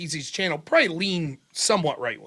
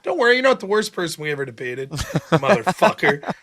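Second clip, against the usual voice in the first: retold payback taunt. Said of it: "I held on to that grudge".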